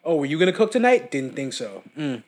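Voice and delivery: put-on a touch of sarcastic girlfriend; mock snippy partner, lightly voiced; passive-aggressive partner. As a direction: needle him lightly about cooking. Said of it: "that's how the arguments go in relationships".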